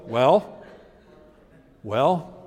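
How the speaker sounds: a hint of a let-down master shaking his head; Jesus disappointed. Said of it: "or have him go".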